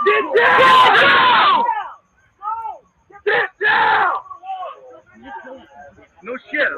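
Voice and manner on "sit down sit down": angry shout. Real, not acted. Officer shouts at drunk man to sit down. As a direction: make him sit now.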